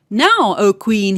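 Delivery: a hint of a sly imp, drawn out slowly; slow menacing little man. Little man threatens the queen at sunset, slow and menacing. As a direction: lean on each word to threaten her.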